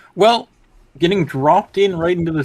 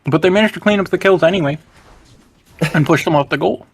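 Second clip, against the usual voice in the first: talking while chewing caramel; mouth full. Real, not acted. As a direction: chew as you speak. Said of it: "Do you have gum in your mouth?".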